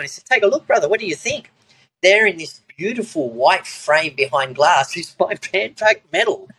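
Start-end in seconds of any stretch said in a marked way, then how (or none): 0.2-1.5 proud mate. Retold or imitated. Mate proudly showing the framed medal. 2.0-6.5 laughing. Real, not acted. Reveals medal framed on wall.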